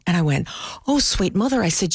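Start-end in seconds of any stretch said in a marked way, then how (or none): 0.9-1.6 mock dismay. Reacting to grandmother's secret.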